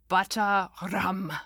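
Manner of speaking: put-on slow, mysterious old lady; tone of high mystery. A narrator's reading. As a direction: announce it like an oracle of sweets. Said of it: "in a tone of high mystery".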